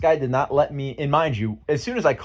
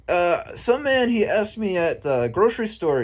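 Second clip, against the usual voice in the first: imitating a friend; 7 semitones higher, slower than usual. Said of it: "But he goes".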